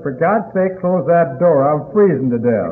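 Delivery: pleading loudly to shut the door; urgent, put-upon cry; exasperated plea. Retold or imitated. Drunk in ice house pleads.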